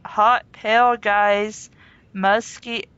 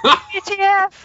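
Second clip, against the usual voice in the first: high, loud yelled letters W T F; screamed letters; 9 semitones higher, 3 dB louder than usual. Acted. Reading out the heroine's outburst, a high yelled W T F. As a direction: belt out the letters W T F. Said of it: "I screamed loudly".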